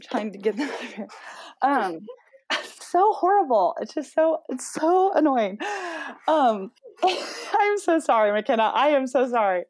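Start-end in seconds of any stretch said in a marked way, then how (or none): 1.6-9.6 higher, giggling apology; embarrassed laughing. Real, not acted. Family interrupting during podcast.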